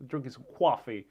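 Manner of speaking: lightly put-on Brooklyn accent; mock Brooklyn accent on "coffee". Streamer illustrating the stereotypical Brooklynite, light Brooklyn accent. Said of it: "with this type of accent".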